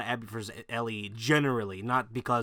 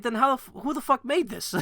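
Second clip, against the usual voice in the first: exasperated outburst; 10 semitones higher than usual. Real, not acted. Outraged rhetorical question.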